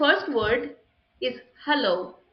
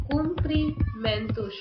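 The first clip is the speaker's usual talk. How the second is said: "Cumprimentos" drawn out slowly, higher pitched; slow dictation; 4 semitones higher, slower than usual. Shown as a demonstration. Spelling out word while writing it.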